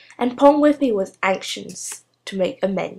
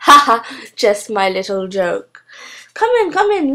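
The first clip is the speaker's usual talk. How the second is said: gushing witch; 3 semitones higher, 4 dB louder than usual. Acted. Gushing hostess welcomes guest.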